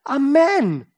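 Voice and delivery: Amen called high and loud on -men; loud Hebrew-style Amen, stress at the end; second-syllable stress. Shown as a demonstration. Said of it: "die Betonung auf die zweite Silbe".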